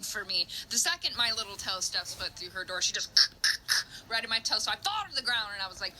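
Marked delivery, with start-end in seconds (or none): 3.1-4.0 sharp, voiceless scratching noises; imitated cat swipe. Acting out the cat going for my toe, imitated swipes. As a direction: spit out quick clawing sounds.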